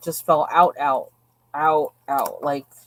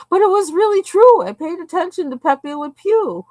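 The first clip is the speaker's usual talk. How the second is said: laughing protest; 11 semitones higher, 6 dB louder than usual. Real, not acted. Laughing, high-pitched protest.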